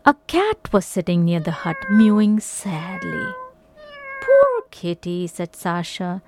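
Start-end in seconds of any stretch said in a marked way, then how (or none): 4.2-5.3 put-on high girl voice. A narrator's reading. Sasha pities the cat.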